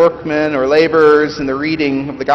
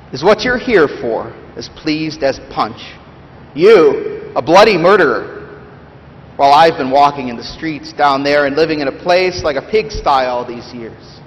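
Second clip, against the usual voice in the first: bitter ghost. Acted. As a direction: bluster like a wronged, bitter ghost. Reads Big Ghost's lines.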